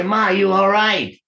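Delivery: retold anxious call to mother, pitched high; panicky. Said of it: "I'm really getting panicky".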